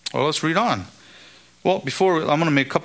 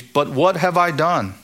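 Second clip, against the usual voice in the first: plaintive protest; 4 semitones higher, 3 dB louder than usual. Retold or imitated. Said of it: "he said this quite a lot".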